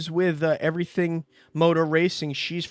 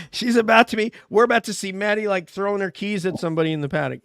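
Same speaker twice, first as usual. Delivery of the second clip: laughing tease; 6 semitones higher, 5 dB louder than usual. Real, not acted. Teasing co-host, laughing.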